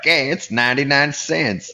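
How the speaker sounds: put-on old lady's drawled accent. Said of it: "she's like".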